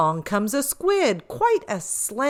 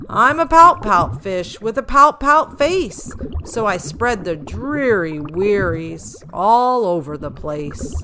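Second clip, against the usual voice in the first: gloomy pout-pout refrain; 6 dB louder than usual. Acted. Fish sings his gloomy refrain.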